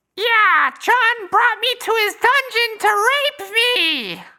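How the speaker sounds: very high, full-volume, obnoxious, cringey loudmouth voice. Retelling what Carl said in a restaurant: imitating Carl at full volume. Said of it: "saying at full volume".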